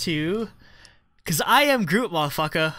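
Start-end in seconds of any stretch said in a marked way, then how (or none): 1.2-2.7 excited announcement. Retold or imitated. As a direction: announce it with a flourish. Announcing winner lyric.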